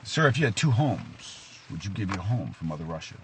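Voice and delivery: lightly hammed Russian officer posing a test; cheesy Russian accent. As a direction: question him in a mock Russian accent. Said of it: "cheesy Russian accent".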